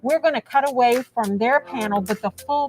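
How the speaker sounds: muffled behind a mask; words muffled by a mask; through a face mask. Real, not acted. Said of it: "I can't even speak with a mask on".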